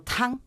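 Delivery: "tang" held on a high, level pitch; first tone TANG. Shown as a demonstration. Student demonstrates Chinese tones, "tang" high and level. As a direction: sustain "tang" high without bending it. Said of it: "Primer tono".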